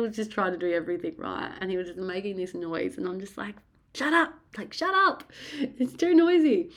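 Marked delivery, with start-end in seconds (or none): 3.9-6.7 very high-pitched retold outburst; exasperated. Labouring woman to partner making noise, exasperated. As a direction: whine it out, sick of the noise.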